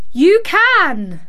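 high, loud shout. A narrator's reading. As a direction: shout it back at him. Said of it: "shouted Mary".

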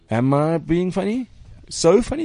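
slow, then high and surprised; mock surprise. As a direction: act puzzled, then squeak it up. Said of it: "I'm like".

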